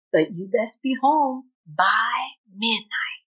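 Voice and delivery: a lightly voiced motherly fairy cow, slowing toward the warning; fairy god cow voice. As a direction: gently caution him about midnight. Fairy god cow advises Bubba.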